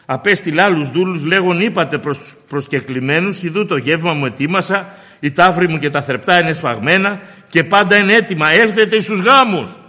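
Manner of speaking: preacher's ringing summons; emphatic reading that swells to the invitation; scripture proclamation. Acted. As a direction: declaim the verse, building to a loud call.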